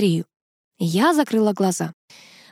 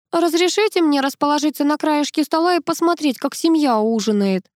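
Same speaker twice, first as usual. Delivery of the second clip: sobbing; 8 semitones higher than usual. A narrator's reading. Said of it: "всхлипнула Тоня".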